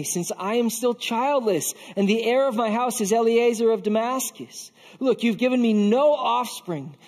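acted protest, rising from subdued to pressing; distressed protest. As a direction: plead your case with mounting frustration. Abraham protests to God.

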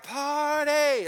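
high, loud mock celebration; playful hammed-up cheer; mock party cheer. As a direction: fling out Party like a cheering crowd.

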